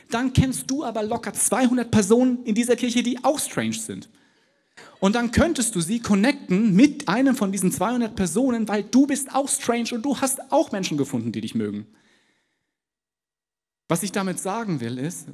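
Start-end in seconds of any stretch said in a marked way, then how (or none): 0.1-11.9 higher and louder, driving the point home; preaching with force. Real, not acted. Preacher urging the church to connect strangers, louder and higher. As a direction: raise the voice and push the point.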